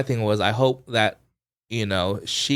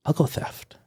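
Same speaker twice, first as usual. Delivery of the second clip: barely voiced mutter; grudging words slipped out under the breath; under her breath; 3 semitones higher, 3 dB quieter than usual. Holdout juror gives in to the room, muttered under her breath. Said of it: "under her breath".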